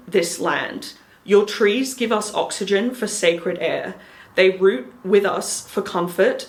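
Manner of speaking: solemn, measured ceremonial voice; ritual invocation. Retold or imitated. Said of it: "so this is what I said".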